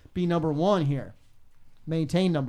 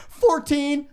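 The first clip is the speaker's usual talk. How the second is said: retold answer; 10 semitones higher, 7 dB louder than usual.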